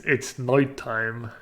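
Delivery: slow Irish try, "night" as noit; Irish accent. Shown as a demonstration. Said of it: "practice words with this vowel shift".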